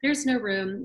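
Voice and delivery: lightly imitated, cheerful "no room"; Mary Libby's jovial voice. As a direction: let her down kindly and cheerfully. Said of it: "she had this, like, lovely, jovial way".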